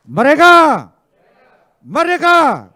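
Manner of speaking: shouted high and loud; rallying shout. Real, not acted. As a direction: call it out to the crowd. Rallying call to crowd.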